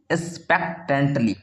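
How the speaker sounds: "expectantly" broken slowly into syllables; "expectantly" in careful, measured chunks; pronunciation demo. Shown as a demonstration. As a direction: model "expectantly" slowly for the class. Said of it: "पढ़िए मेरे साथ एक बार".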